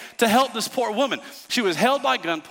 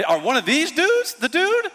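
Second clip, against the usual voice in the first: retold fear; 9 semitones higher than usual. Retold fearful thought.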